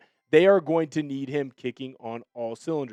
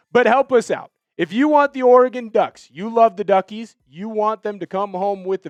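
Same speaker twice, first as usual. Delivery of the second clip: excited rallying; 6 semitones higher, 6 dB louder than usual. Real, not acted. Rallying fans to like video.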